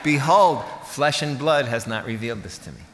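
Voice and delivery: loud mock-biblical declaration on the first word, then settling; mock proclamation. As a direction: announce it like a grand revelation, tongue in cheek. Mock revelation after a joke.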